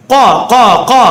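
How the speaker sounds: கா as a short rounded 'qo'; heavy Arabic q on each கா; throat q drill. Shown as a demonstration. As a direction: repeat கா from the back of the throat. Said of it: "பயிற்சி எடுத்துட்டு செய்யணும்".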